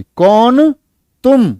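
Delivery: high questioning voice as Radha; Radha asking. Acted. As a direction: ask it as Radha.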